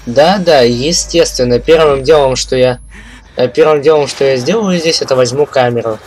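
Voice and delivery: loud, mocking agreement; sarcastic. Real, not acted. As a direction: sneer at the obvious choice. Sarcastic comment on camera.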